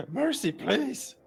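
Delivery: high, slow frightened begging; squeaky-high, drawn-out plea; pleading for mercy. Acted. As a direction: beg pitifully for your life. Surrendering creature begs for mercy.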